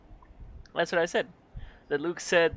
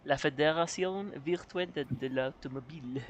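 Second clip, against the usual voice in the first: put-on French accent. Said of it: "unless you're gonna sound like that".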